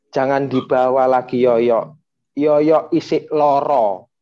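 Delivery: slow, pleading mother's plea; tearful mother. Retold or imitated. Mother pleading with the envoys, slow and tearful. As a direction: beg slowly, as if through tears. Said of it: "Sambil nangis".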